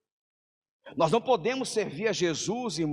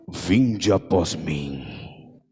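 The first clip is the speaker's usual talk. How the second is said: much lower and very slow, a grand solemn announcer voice; Cid Moreira voice; 13 semitones lower, 5 dB louder, much slower than usual. Retold or imitated. Jesus calling the fishermen in a deep, slow announcer voice. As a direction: boom it out slowly like a famous newsreader. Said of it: "igual o Cid Moreira chamando eles".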